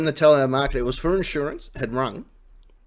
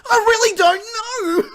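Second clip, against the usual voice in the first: mock uncertainty; 4 dB louder, slower than usual. Mocking telemarketer, slow high laugh.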